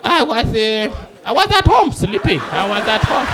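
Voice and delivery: hesitant, caught-out confession; stall, then own up lightly; sheepish admission. Acted. Witness admits he saw nothing.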